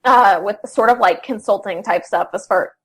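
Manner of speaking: talking through hiccups; hiccuping between words. Real, not acted. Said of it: "excuse me, I've got the hiccups".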